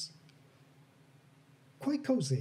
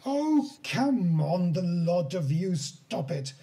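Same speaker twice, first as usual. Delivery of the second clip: a stern old woman's call, lightly voiced; hint of a crotchety old woman shooing people; old woman scolding; 3 dB louder, slower than usual. Old woman scolding the crowd, lightly voiced.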